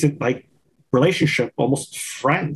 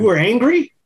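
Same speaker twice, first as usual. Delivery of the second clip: pitched way up, louder, in fake shock; mock surprise; 8 semitones higher, 4 dB louder than usual. Cohost teasing the calm guest about being angry, mock shocked. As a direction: tease him with exaggerated disbelief.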